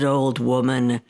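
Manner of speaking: low, slow demon gloat; a deep demon sure he's won. Acted. Demon gloating down the smoke hole at the old woman, low. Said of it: "He said".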